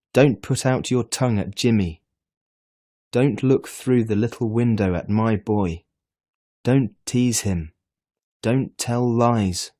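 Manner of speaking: father scolding his lying son; stern scolding. A narrator's reading. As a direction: drive each "don't" home. Father scolding while pulling ears.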